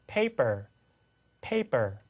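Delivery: paper with airy first p; teacher models paper for repetition. Shown as a demonstration. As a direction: repeat paper, aspirated first p. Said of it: "그대로 따라해보세요".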